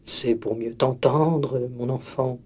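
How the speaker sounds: low, slow, soft wolf voice; wolf disguised as grandmother, soft and slow; sly wolf. Acted. Wolf answers softly.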